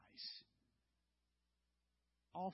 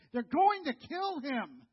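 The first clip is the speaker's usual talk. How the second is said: overheard whisper-warning; 4 semitones higher, 7 dB louder, slower than usual. Acted. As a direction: deliver it like an overheard threat. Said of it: "and they say".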